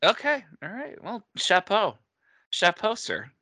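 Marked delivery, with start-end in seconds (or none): 1.0-2.0 lofty French compliment, tongue in cheek; mock-posh praise. To a friend after his pun, mock-posh praise. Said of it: "most pretentious vocabulary". 2.5-3.3 mock-posh praise. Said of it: "most pretentious vocabulary".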